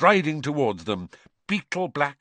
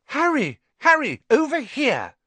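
high, loud call across a street; 5 dB louder than usual. A narrator's reading. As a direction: call him from the top of the steps. Hermione calls from the steps.

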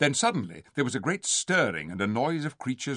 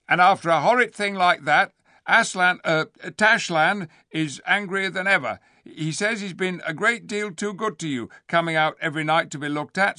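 high, loud, wheedling ape; a scheming ape scolding the crowd; ape's voice; 8 semitones higher, 6 dB louder than usual. Acted. Ape warning the gathered beasts, high and loud.

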